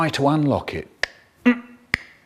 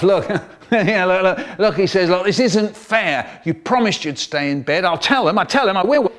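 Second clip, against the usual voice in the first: laughing brother; 5 semitones higher than usual. Retold or imitated. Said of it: "He starts to laugh".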